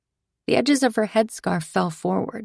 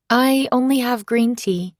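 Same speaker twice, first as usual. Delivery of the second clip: higher, sheepish apology; apologetic; 5 semitones higher, 3 dB louder than usual. Acted. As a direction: say it apologetically, a bit embarrassed. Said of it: "I said apologetically".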